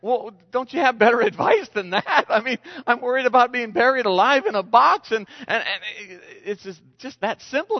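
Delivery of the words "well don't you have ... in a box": surprised patient. Retold or imitated. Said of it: "she's kinda surprised".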